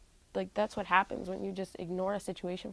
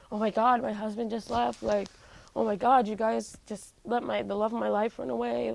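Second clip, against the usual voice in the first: a louder, upset retelling of mom's panic; panicked mom; 2 semitones higher, 4 dB louder than usual. Retold or imitated. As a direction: play a frantic mother, half-acted. Mom freaking out.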